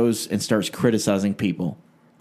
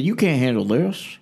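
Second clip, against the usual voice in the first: higher-pitched mock preacher challenge; Ruckman; 4 semitones higher than usual. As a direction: lightly parody a taunting preacher. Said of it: "here's my Ruckman impersonation".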